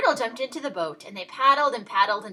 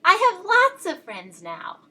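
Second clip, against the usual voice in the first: louder and higher, bursting with joy; very loudly; 8 semitones higher, 6 dB louder than usual. A narrator's reading. Little Beaver happily calls his news across the pond, very loud. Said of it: "very loudly".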